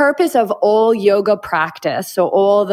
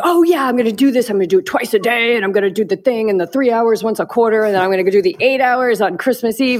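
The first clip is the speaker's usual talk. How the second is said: put-on, gushing, all-in, eager enthusiasm; 2 semitones higher than usual. Retelling how an eager student talks to the teacher: imitating someone really excited. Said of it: "when he gets somebody really excited".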